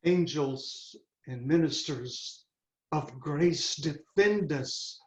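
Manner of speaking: hushed, fearful prayer at a ghost; awed hush. Acted. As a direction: breathe it out as the ghost appears. Hamlet first sees ghost.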